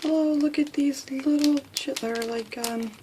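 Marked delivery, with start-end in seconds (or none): 0.0-1.9 higher, louder breathless excitement; too excited to speak. Real, not acted. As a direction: stumble over words from excitement. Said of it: "oh, I can't speak".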